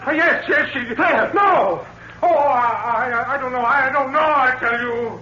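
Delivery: he cracks under pressure and blurts it out; panicked breakdown. Acted. Cornered husband breaks under questioning.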